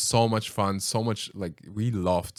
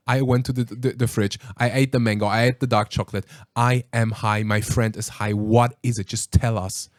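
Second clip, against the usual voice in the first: louder, urgent and pressing; hyped-up retold demand, a touch louder; insistent demand; 5 dB louder than usual. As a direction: push him hard to tell you. Retold demand to friend on phone.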